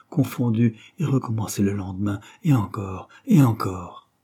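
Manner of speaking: panting, sighing plea; a touch of breathless longing; breathless pleading. Acted. Christine pants her plea to Claude. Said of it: "d'un souffle haletant, coupé de soupirs".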